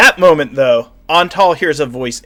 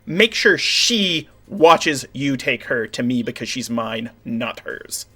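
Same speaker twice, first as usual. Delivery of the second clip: commanding vampire queen. Acted. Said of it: "a voice that goes".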